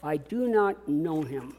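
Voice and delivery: I do not know him said slowly and softly; painful denial. Shown as a demonstration. Preacher voicing Peter's denial, softly pained. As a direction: let the pain sit in it. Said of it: "is that painful?".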